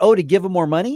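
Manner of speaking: loud, high, chipper, upbeat acted tone. Retelling his reply to a man urging votes for school props, mock-upbeat. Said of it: "I tried to say it very upbeat".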